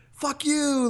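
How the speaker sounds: high, drawn-out mock yell; joking yell. Joker yells out the taxi window at a tip-seeker, mock yell. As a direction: call it out high, as a joking jeer. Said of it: "I yell out the window".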